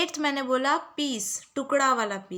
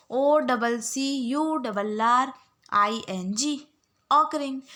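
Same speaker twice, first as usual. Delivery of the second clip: slow drill spelling; slower than usual. Shown as a demonstration. Teacher drilling spelling for students to repeat. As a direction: drill it slowly for the class to repeat. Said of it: "आप लोग बार बार repeat कर लो".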